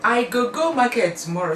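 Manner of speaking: plain Nigerian Pidgin example. Shown as a demonstration. Teaching viewers a Nigerian Pidgin sentence, lightly voiced. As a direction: state the Nigerian Pidgin line simply. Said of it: "you say".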